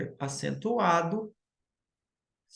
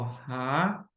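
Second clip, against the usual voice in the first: "rainha" slowly broken into ra, i, nha; syllable by syllable; 4 semitones lower, 3 dB quieter than usual. Shown as a demonstration. Teacher repeating the example for students, "rainha" slowly split into syllables. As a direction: sound out "rainha" in three separate beats. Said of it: "eu separo sa".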